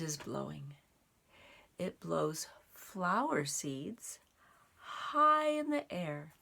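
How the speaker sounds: expressive storybook read-aloud; reading to children. A narrator's reading. Reading a picture book aloud to children, expressive storytime voice. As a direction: paint the seeds' journey for young listeners.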